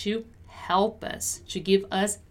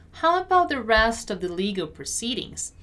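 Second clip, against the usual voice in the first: careful, measured teaching read; deliberate pronunciation model. Shown as a demonstration. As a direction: spell out each word at a learner's pace. Teacher models sentence slowly first.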